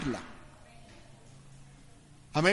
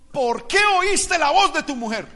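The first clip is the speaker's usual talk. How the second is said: raised-pitch mock rebuke; a higher, lightly scolding question; retold scolding; 5 semitones higher, 3 dB louder than usual. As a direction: imitate God reproaching a man, mildly stern. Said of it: "regaña a Adán diciendo".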